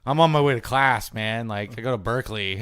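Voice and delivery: put-on loud, sloppy drunk apology; blustering drunk college kid; loud drunk guy. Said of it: "the dude was like".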